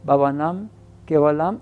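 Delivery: both Bhavanam and Kevalam swooping upward at the end; guided mantra. Shown as a demonstration. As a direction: lift each mantra word like an in-breath. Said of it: "vamos a seguir para arriba".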